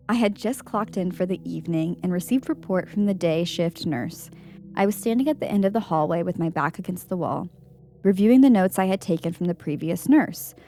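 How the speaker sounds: measured read-aloud voice; composed narrator reading from the page; story narration. A narrator's reading. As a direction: read out a first-person account evenly. Reads a ghost story aloud.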